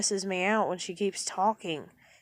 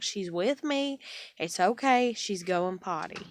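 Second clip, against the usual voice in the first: hollering reassurance. Retold or imitated. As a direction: call back so she can hear you. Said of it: "I holler at her".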